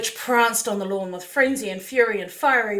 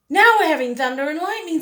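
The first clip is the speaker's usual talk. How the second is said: thunder call; 8 semitones higher, 8 dB louder than usual. Acted. Mother over the thunder.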